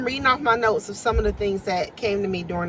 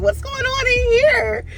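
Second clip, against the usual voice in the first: high, louder put-on voice of a curious newcomer; imitating a singer; 4 dB louder than usual. Singer walking in off the street, imitated high and curious. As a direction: mimic her walking in asking what's up. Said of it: "she walked in off the street like".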